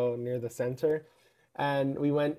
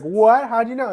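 high, loud gasp of disbelief; mock surprise; 7 semitones higher, 7 dB louder than usual. Everyone reacting to Adam Driver, mock surprised. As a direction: act out the crowd's shock.

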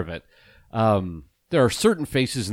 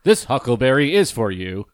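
louder robotic cowboy voice; 6 dB louder than usual. Pretend. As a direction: speak it like a machine. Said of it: "says it with a robotic voice".

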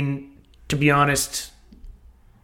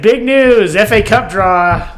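announcing; 4 semitones higher, 3 dB louder, slower than usual. Acted. Announcing big news.

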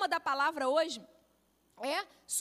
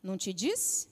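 told you so; 8 semitones lower than usual. Retold or imitated. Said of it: "escutar dele falar assim pra mim".

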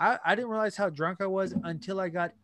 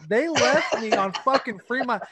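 laughing through the words; 4 semitones higher than usual. Real, not acted. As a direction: chuckle it out. Laughing while telling.

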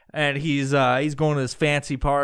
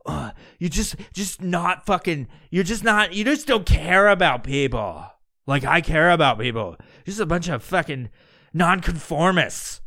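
higher, exasperated sputtering complaint; hammed-up self-righteous whine; whiny mock reproach; 4 semitones higher than usual. Jeffrey accuses partygoers of not caring about people, whiny.

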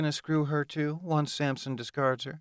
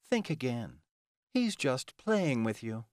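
mildly snarled, higher-pitched warning; snarling; 4 semitones higher than usual. Acted. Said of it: "Ilona snarled at her".

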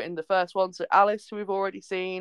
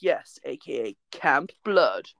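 ominous deep voice; 4 semitones lower, slower than usual. Retold or imitated. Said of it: "And they're like".

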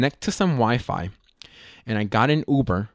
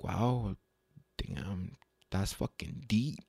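hushed, slow awe to himself; soft self-talk, deeply impressed; serious inner voice; 3 semitones lower, 12 dB quieter, much slower than usual. Retold or imitated. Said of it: "that voice, it got serious".

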